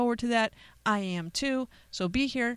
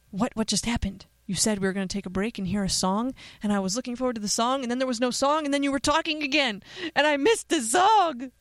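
hammed-up outrage, dragging out the last words; mock listener complaint; 4 semitones higher, 4 dB louder than usual. Host mimics a podcast listener who missed the song, mock indignant. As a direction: build from puzzled to loud, high whining protest.

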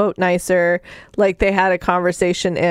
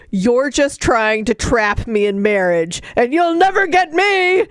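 mock yell; 3 semitones higher than usual. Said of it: "he yells at her".

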